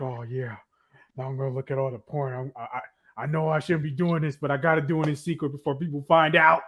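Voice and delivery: low sleazy mutter. Retold or imitated. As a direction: mutter it like a creep. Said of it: "He's like".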